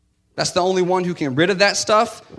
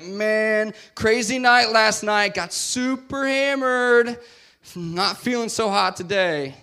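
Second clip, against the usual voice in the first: hungover Billy; 5 semitones higher, slower than usual. Acted. Hungover Billy voiced slowly.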